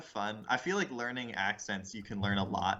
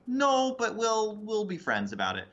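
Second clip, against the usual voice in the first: high Edinburgh lilt dropping to normal pitch; Edinburgh accent; 11 semitones higher, 4 dB louder than usual. Acted. Edinburgh locals declining the English, high Scottish accent. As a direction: amiable Edinburgh Scottish refusal, starting loud and high. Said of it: "English people showed up to Edinburgh".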